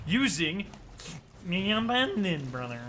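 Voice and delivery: slow nerdy villain voice; Rolk voice. Pretend. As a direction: drawl it out like a nerdy warlord. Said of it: "That's my Rolk voice".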